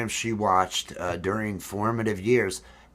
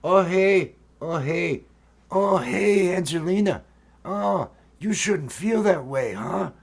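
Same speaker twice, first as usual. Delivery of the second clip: high-pitched cartoon character voice; drawn-out, higher voice consoling a friend; Marco; 8 semitones higher, 3 dB louder than usual. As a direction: play a kids' show pal, pitched up. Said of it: "that was Marco".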